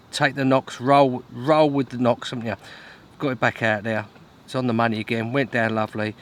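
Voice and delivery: ordinary talk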